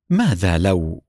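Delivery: low, troubled, a touch of distress; قلق مكتوم. A narrator's reading. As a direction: ask it heavy with worry. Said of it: "بصوت يبدو عليه الضيق".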